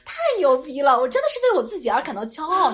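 loud, proud boast; hyped and pleased with herself; excited. Real, not acted. Boasting about their own podcast.

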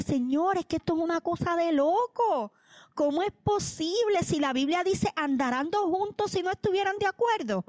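pleading prayer. Retold or imitated. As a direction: beg the Lord, half laughing at herself. Retold anguished prayer to God.

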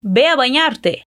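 "Ve a bañarte" slowly, V as B; slow Spanish model. Shown as a demonstration. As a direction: say "Ve" like "be", carefully. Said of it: "o V tem som de B".

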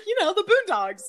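mock ditzy friend insisting on "Boondogs"; imitating ditzy friend. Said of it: "She's like".

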